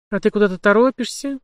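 high, tipsy giggling question; drunk giggle. Acted. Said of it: "пьяно хихикнула пленница".

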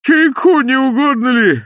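high, loud eager offer; old man hustling Bender indoors; fussing old man. A narrator's reading. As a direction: press tea on him like a fussy old host. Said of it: "бормотал старик".

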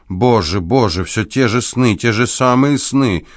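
rising, tearful complaint, slowing at the end; an old man's whimpering lament over his dreams; plaintive lament. Acted. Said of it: "Произнеся эту жалобу, старик заплакал".

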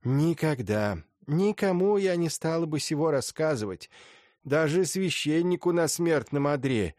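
lightly voiced stern old lady; a hint of an imperious grande dame; haughty old princess.

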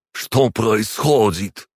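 high, slow, strained question; drawn-out, strangled plea; choked croak. A narrator's reading. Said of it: "прохрипел Эммануэль".

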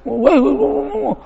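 high mock shouting "weh, weh"; imitating a high shout; calling out. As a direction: yell across the river like a rowdy man. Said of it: "teriak-teriak".

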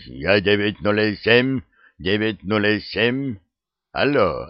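loud, high shouting into a mic; yelling into radio. Acted. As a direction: bellow into the walkie-talkie. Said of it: "орёт в микрофон так, что закладывает уши".

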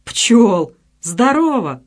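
pleased, lifted hello to a friend; glad greeting. A narrator's reading. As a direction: greet him with a glad lift. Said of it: "обрадовался Белов".

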